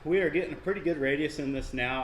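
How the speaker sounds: winded, catching breath between words; breathless after hard work. Real, not acted. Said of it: "I'm still out of breath here".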